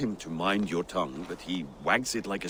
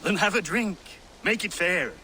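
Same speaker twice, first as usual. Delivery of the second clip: tipsy, loud and much higher, calling out across the road; drunken shout; 9 semitones higher, 3 dB louder than usual. Acted. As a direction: bellow it half drunk to a friend you're racing. Drunk man shouting at rider.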